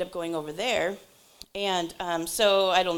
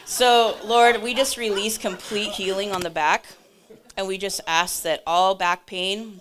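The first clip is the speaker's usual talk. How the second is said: earnest spoken healing prayer, strong opening; congregational prayer. Real, not acted. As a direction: pray aloud for the room, easing toward amen.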